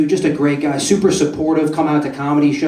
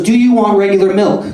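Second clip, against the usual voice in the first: loud, raised barista voice; higher, louder acted customer-service question; barista's question; 5 semitones higher, 6 dB louder than usual. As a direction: call the question out like a barista at the counter. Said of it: "I hear the barista, and he goes".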